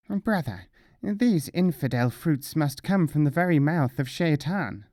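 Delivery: mullah voice. Acted. Mullah with burning mouth complains.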